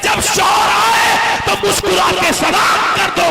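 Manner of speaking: high, shouted exhortation at a slow, drawn-out pace; full-force preaching. Acted. Preacher urging sisters and daughters to drop amulets, full-force preaching. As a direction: thunder it phrase by phrase to the whole congregation.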